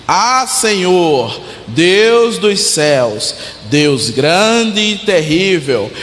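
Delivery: slow, solemn prayer reading; solemn scripture reading. Acted. Reads Neemias's prayer aloud.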